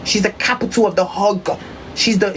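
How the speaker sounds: husky stress landing on "hog". Shown as a demonstration. Showing listeners how to say it, husky. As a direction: put husk in it, leaning on "hog". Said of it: "Put the husk in your voice".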